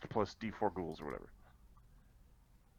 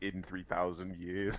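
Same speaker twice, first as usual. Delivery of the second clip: ordinary talk, nothing marked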